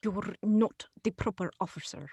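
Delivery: lightly put-on Russian accent; a deliberately bad Russian accent, only hinted at. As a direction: councillor contradicting the clerk in a faint mock Russian accent. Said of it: "bad Russian accents".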